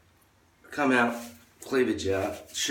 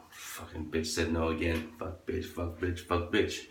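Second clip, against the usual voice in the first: grumbling rejected man; 2 semitones lower, 6 dB quieter, slower than usual. Retold or imitated. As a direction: grumble it under your breath. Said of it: "Men will just go".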